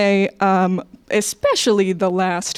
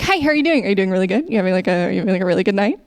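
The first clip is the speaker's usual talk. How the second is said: American server greeting; much faster than usual. Acted. Server welcoming customers in America, gushy and eager. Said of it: "if I was serving, like, you in America".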